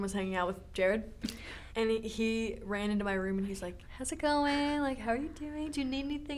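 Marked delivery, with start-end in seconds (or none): 4.0-6.4 higher, sweet imitation of a caring boyfriend; retold gentle check-in. Boyfriend looking in on his sick girlfriend, gentle check-in. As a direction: imitate someone softly checking in, voice raised.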